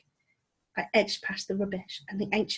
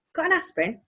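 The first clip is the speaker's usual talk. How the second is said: high, tired croak; weary creature voice; 9 semitones higher than usual. Acted. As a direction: grumble it like a sick old creature. Skellig's weary voice.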